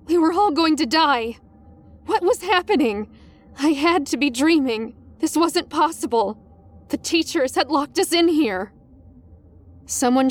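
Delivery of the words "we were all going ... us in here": rising panic. Acted.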